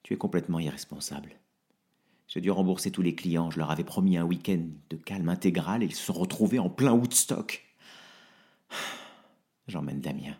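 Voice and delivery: tired and tearful, pleading; quiet heartbroken farewell; exhausted. Acted. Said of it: "Je suis épuisé".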